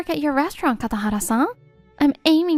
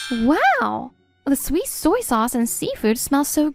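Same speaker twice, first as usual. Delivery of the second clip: delighted gasp. Acted. Smells the served dish.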